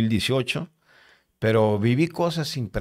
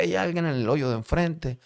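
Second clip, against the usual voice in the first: imitated yell at moderate volume, pitched up; higher, held-back shout; retold calling out; 5 semitones higher than usual. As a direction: mimic a man calling across cells. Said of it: "empezó a gritar aquel hombre".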